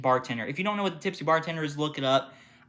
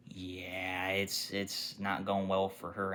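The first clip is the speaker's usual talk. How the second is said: hushed aside; 5 semitones lower, 10 dB quieter, slower than usual. Retold or imitated. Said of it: "And Mark is like".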